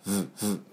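short "vvv" with lip on upper teeth; buzzed V. Shown as a demonstration. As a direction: turn F into a voiced buzz. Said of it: "前の歯に当てて". (唇を歯に当てて「ヴ」)

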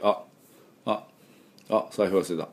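short light "あ", as on remembering something; brief offhand "あ". Shown as a demonstration. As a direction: say "あ" lightly, like a small realisation. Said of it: "この軽い感じね".

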